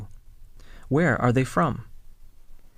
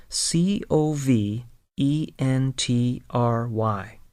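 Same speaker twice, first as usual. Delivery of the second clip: spelled out letter by letter. Shown as a demonstration. Teacher spelling the word for learners to follow. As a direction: spell each letter clearly. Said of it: "spelling the city".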